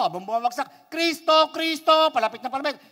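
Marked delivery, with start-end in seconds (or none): 0.9-2.1 high, loud desperate calls; frantic high invocation; falling cries. Acted. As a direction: shout for Christ as you drop. Christian calls out while falling.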